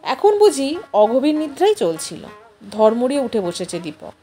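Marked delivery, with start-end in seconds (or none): none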